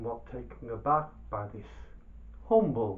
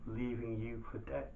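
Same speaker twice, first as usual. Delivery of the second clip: much louder, pushy boasting; blustering merchant; 2 semitones higher, 8 dB louder than usual. Acted. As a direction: bluster and brag to scare him. Baba Abdallah persuades loudly.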